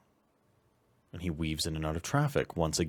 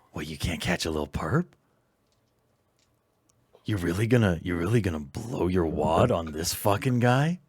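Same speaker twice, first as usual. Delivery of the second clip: insistent inner voice. Acted. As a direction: coax and needle like the Beast. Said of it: "so very insistent tone".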